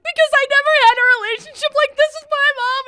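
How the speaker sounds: high, loud mock wail; loud sobbing wail. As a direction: wail it out, hammed-up. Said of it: "I'm like".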